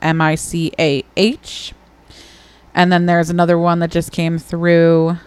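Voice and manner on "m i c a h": spelled out. Shown as a demonstration. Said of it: "we gotta do the subject title".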